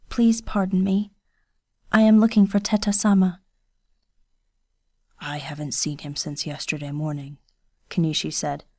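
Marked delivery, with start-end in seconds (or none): 0.1-3.4 put-on a lightly raised, shy young woman's voice; Kiyose, timid girl. 5.2-7.4 lightly voiced stern young ronin, hushed; a hint of a guarded swordsman speaking low; quiet, restrained ronin voice; Kenishi, low and quiet.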